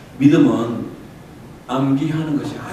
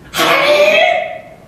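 high, drawn-out cheerful "하이"; sing-song reply; 6 dB louder, much slower than usual. Retold or imitated. Preacher answering a caller with a mock-bright high "하이". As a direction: answer with a stretched, falsely bright "하이". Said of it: "똑같이".

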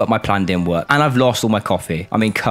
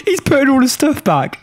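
high amused disbelief; 14 semitones higher, 3 dB louder than usual. Real, not acted. Customer puts all stuff back.

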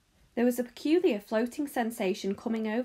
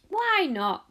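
cheerful; 8 semitones higher, 6 dB louder than usual. Acted. Cheerful shopkeeper answers Charlie.

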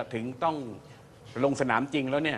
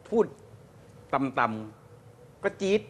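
shrill voice demo; much slower than usual. Shown as a demonstration. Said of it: "คนเสียงแหลมเนี่ย พูดต่ำๆ ก็จี๊ด".

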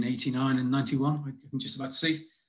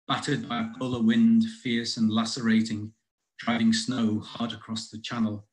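measured poem recital with deliberate pauses; poetry reading. Acted. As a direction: read it as verse, line by line. Reads own poem aloud.

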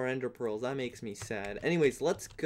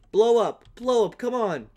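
voice crack; 6 semitones higher, 6 dB louder than usual. Real, not acted. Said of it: "Voice crack again".

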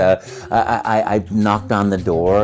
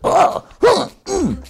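hoge Mario-verbazingsklanken; Mario exclamations; 4 dB louder, much slower than usual. Shown as a demonstration. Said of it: "or, you know".

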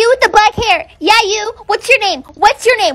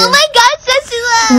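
fake cute voice; 3 semitones higher than usual. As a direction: put on a sweet fake voice. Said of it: "What's up with the fake voice?".

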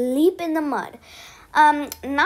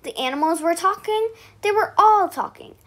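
put-on lively storybook voice for kids; bedtime story reading. A narrator's reading. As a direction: read it out to little ones at bedtime.

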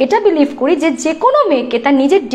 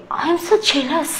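softer, slow, drawn-out mock gush; mocking drawl; 6 dB quieter, much slower than usual. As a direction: stretch "so" out slowly and mockingly. Mocking the woman's comment again. (ব্যঙ্গ করে টেনে টেনে "I am so jealous")

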